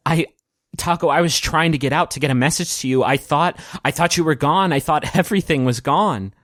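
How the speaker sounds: overjoyed. Acted. Kravitz reunites with Taco he thought gone, overjoyed. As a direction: let the relief lift your voice. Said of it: "he is overjoyed".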